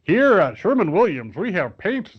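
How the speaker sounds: a light mock ad announcer; a hint of a commercial announcer. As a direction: play a cheery TV ad, lightly. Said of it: "and it's like".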